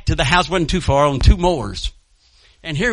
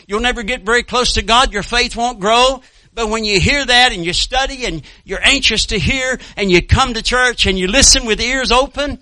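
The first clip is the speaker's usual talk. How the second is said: raised, driving exhortation; earnest preaching; 4 semitones higher than usual. Real, not acted. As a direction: press the point on the congregation. Preaches exhortation after quoting scripture.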